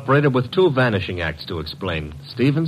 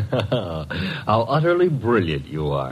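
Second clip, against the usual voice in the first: teasing laugh; slower than usual. Acted. Assistant teases boss after his explanation.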